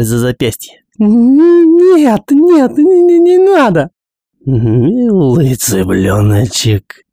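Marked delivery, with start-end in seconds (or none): 1.0-3.9 high, loud, desperate pleading; panicked scream. Acted. Тварь хватает Гиги. 4.4-7.0 slow, purring monster voice; purring creature. Acted. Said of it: "промурлыкала тварь голосом Джо Салливан".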